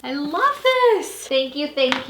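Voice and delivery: high, slow, loving this; delighted gush. Real, not acted. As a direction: draw it out adoringly. Admiring the pages.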